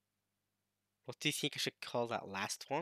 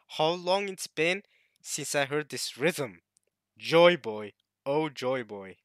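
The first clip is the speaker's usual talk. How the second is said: awed giant; 6 dB louder, slower than usual. Acted. Reading the giant's awed lines.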